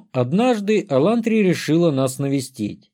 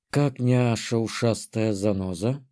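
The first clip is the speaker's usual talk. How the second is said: тёмная эльфийка Танша; 4 semitones lower, 5 dB quieter than usual. A narrator's reading. Танша спрашивает о роженице.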